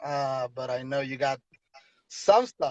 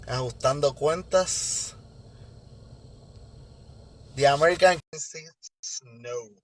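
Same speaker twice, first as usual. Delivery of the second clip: lucha libre announcer. Acted. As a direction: announce the fighter to the crowd. Introducing the guest like wrestling.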